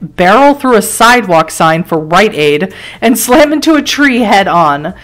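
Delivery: measured dramatic game narration; story narration. A narrator's reading. Narrator setting a car crash scene for the player, story narration. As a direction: read it like a grim storyteller.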